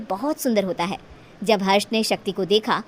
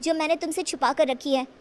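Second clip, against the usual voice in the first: put-on a lightly higher, tender girl voice; shy bride-to-be; 4 semitones higher than usual. Shakti accepts Harsh's proposal, lightly voiced and tender.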